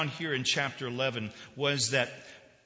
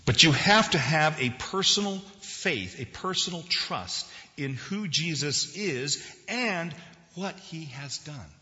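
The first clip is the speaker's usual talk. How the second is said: raised sermon voice, slowing and softening at the close; emphatic preaching; 5 semitones higher, 6 dB louder, slower than usual. Real, not acted. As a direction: urge the congregation, then let it settle. Preaches with force.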